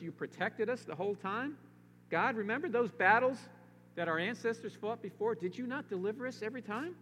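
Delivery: high, pleading questions to God; pleading king. Acted. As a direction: beg God as the king would. Voicing Jehoshaphat's prayer, pleading.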